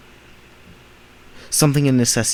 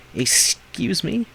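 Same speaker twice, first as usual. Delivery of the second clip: slow, higher, affronted; mock-indignant, drawn-out question; offended excuse me; 8 semitones higher, much slower than usual. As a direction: stretch it out in disbelief. Reacts to imagined remark.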